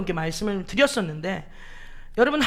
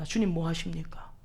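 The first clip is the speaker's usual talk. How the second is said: building complaint. Retold or imitated. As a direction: start hushed and swell into protest by 왜 이러십니까. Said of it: "라고 반문을 합니다".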